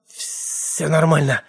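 slow hoarse rasp. Acted. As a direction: force it out hoarsely and slowly. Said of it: "просипел я".

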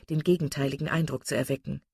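ordinary delivery, nothing marked

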